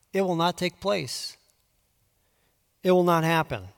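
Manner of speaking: quiet, settled certainty; calm and confident. Acted. Preacher reading God's promise to Judah, calm and sure. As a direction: state it calmly, beyond doubt. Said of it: "as confident and as calm as you can possibly be".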